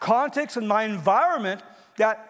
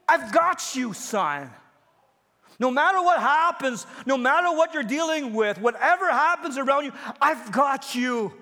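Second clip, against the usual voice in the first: reassuring God; 5 semitones higher than usual. Retold or imitated. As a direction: reassure a frightened son. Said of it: "a message in all this that said".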